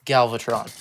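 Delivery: voiced dramatic villain announcement; better villain voice. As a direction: boom out the villain's name like a reveal. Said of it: "That's a better voice".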